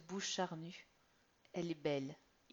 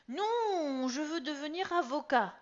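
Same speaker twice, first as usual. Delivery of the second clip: put-on much higher, louder stubborn boy; insistent teen; 10 semitones higher, 11 dB louder than usual. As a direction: dig your heels in. Son insists.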